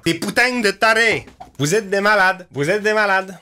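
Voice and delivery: high, excited disbelief, half laughing; amazed outburst. Real, not acted. Streamer stunned by fans' collaborative document, excited high exclamations. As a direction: rave at them in delighted shock.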